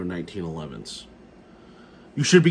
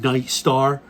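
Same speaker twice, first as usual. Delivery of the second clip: "Night Star?" asked louder, with disbelief; incredulous; 3 semitones higher, 5 dB louder than usual. Real, not acted. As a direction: scoff at "Night Star", lifting "Star". Mocking the gun's model name.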